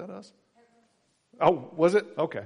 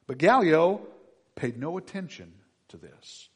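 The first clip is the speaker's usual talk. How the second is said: slow, loud, solemn reading of the text; scripture reading; 5 semitones higher, 6 dB louder than usual. Acted. Preacher reading Acts to the congregation, slow and solemn. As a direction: read the verses out deliberately to the room.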